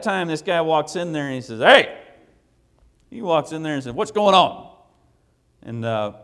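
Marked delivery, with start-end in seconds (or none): 1.6-2.0 sudden loud, high shout; shouted challenge. Retold or imitated. Husband confronting visitors in his house, shouting. Scary husband bursts in, retold. 4.0-4.7 loud, raised, booming question; shouted demand. Retold or imitated. Husband walking in on visitors, shouting. Scary husband bursts in, retold.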